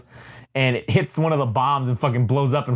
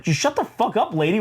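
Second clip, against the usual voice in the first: high-pitched exasperated telling-off; acted annoyed outburst; mock irritation; 6 semitones higher than usual. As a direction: play a fed-up villain without raising volume. Rhino tells Mary off, acted.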